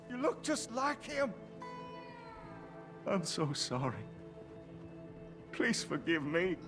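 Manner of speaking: grieving. Acted. Grieving father confesses son's death.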